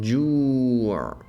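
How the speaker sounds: Ju' with a throat catch at the end; Arabic ayn ending. Shown as a demonstration. Teacher modelling Ju' for learners, throat catch at end. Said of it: "means hunger".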